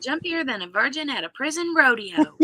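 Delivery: a hint of a Southern accent; Southern belle accent. Shown as a demonstration. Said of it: "if we say it in Blanche's accent".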